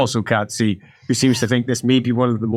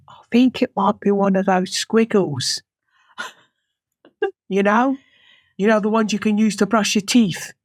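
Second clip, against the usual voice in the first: higher-pitched, tentative voice; musing initiate; 7 semitones higher than usual. Acted. Initiate guessing what was removed, acted tentative musing. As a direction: puzzle it out innocently.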